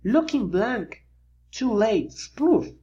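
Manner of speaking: a goofy different voice for Plank; Plank's voice. A narrator's reading.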